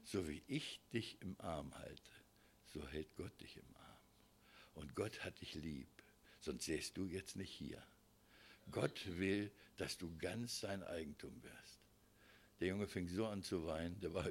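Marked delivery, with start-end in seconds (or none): 0.0-11.8 retold whisper. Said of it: "habe ich ihm ins Ohr geflüstert".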